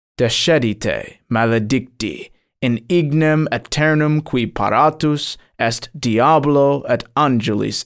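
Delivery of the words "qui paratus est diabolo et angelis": ordinary delivery, nothing marked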